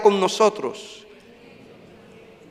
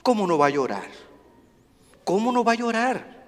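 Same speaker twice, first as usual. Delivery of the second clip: hushed question; 8 dB quieter, faster than usual. Real, not acted. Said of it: "quiet then repeated rhetorical question".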